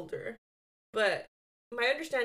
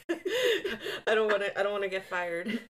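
words pushed out through a laugh; 5 dB louder than usual. Real, not acted. Telling her cohost she won't reveal the job, laughing. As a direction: giggle while holding back a secret.

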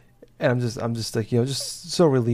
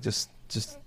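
whispered self-talk; 10 dB quieter than usual. Retold or imitated. Retold self-talk, holding back tears.

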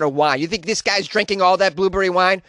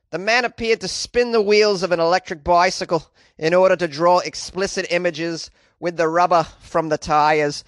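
bad Australian accent. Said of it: "read the police report here with a terrible Australian accent".

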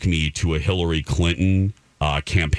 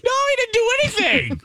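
much higher, fast incredulous denial; emphatic denial; faster than usual. Real, not acted. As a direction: dismiss it fast and high. Emphatic denial about his job.

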